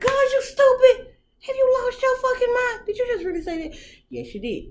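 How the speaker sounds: loud high scolding rant; self-scolding. Retold or imitated. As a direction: scold yourself like an angry mother. Scolding herself in her head.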